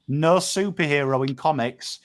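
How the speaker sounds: slow, weighty pronouncement; solemn motto. Real, not acted. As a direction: deliver it like a closing creed, word by word. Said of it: "remember these words from Uncle Pom".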